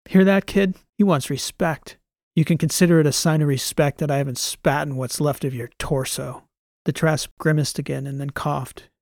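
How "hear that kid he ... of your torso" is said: scornful, loud sneer; mocking contempt. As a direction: taunt the prisoner. Transom mocks captured soldier.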